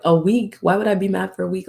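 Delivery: imitated annoyed, incredulous comeback; quick mock-annoyed retort. Annoyed person answers a child asking how long they'll be mad, mock annoyance. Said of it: "they'd be so annoyed".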